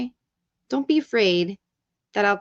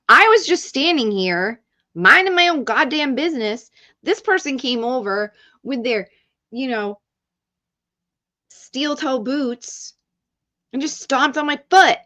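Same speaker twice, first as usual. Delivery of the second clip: passionate complaint; 3 semitones higher than usual. Acted. Streamer demonstrates complaining about a stomped foot, passionate mock outrage. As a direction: protest it with hammed-up passion. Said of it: "you'll be passionate about".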